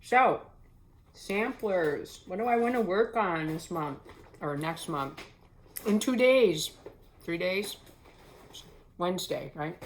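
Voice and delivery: talking through a mouthful of food; words round a bite, still chewing; mouth full. Real, not acted. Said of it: "excuse me talking with my mouth full".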